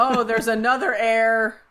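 said through a laugh. Real, not acted. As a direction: let the laugh spill into the words.

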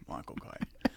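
quiet Cockney murmur; Michael Caine. Acted. Echoing the impression back, soft Cockney voice. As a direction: say it softly in Cockney. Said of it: "Now you're saying his name".

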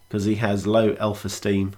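telling a dad joke. Acted. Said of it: "now that's a dad joke".

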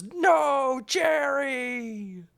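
high, strained cry of grief; mock the hero's agonized wail; hammed-up high cry over a dead friend; anguished movie cry. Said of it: "I'm pretty sure he goes".

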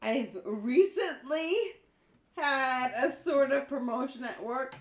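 fighting back laughter while reading; strained, laughing read. Real, not acted. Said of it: "You sound like you're passing a kidney stone".

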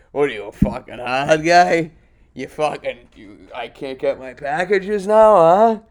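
hammed-up insults; mock angry dad. Angry dad ranting about packages, loud mock rant.

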